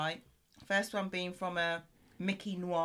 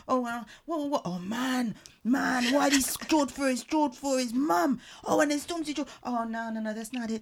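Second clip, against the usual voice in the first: mock a singer; 4 semitones higher than usual. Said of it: "Is he turning to Michael Jackson now?".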